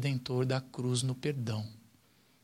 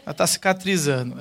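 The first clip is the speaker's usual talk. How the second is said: mock Jesus complaining; 6 dB louder, faster than usual. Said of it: "O filho".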